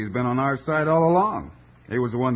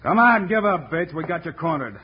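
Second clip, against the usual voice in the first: calling out; 5 semitones higher than usual. Acted. Lawman calls to cornered gunman.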